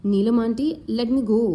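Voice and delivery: lightly trembling plea; shaky voice. Acted. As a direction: let the voice waver a little. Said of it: "Anjali said in a shaky voice".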